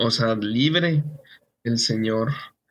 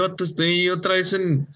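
voice cracking; 4 semitones higher than usual. Real, not acted. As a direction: voice breaks high again. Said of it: "me están saliendo un chorro de gallos". (gallo en la voz)

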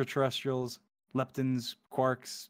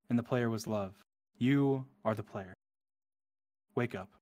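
poem reading. Acted. Gamer reading the End Poem to viewers, hushed and dreamy. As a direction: read it like a dreamy cosmic poem.

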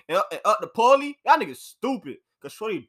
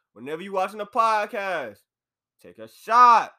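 called-out toast; 4 dB louder than usual. Real, not acted. Calls out to viewers, toast.

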